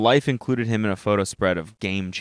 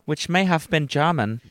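higher voice in pretend German; mock German accent; 5 semitones higher than usual. Friend reading the story aloud, mock German accent. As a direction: read it with a playful German accent. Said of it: "Was that a good German accent?".

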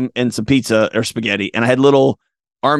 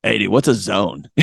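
sheepish question; 4 semitones lower than usual. Retold or imitated. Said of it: "I start laughing. I was like".

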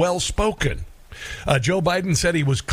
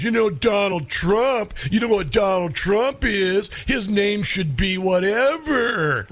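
silly clown; 5 semitones higher, slower than usual. Retold or imitated. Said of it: "party clown would deliver".

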